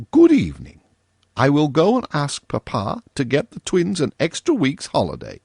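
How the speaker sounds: lightly voiced girl in a huff; huffy girl. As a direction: sweep out as an offended girl. Virginia leaving in a huff.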